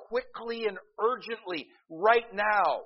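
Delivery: a preacher's urgent build. Shown as a demonstration. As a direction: urge them with rising force. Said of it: "it means urgently give them".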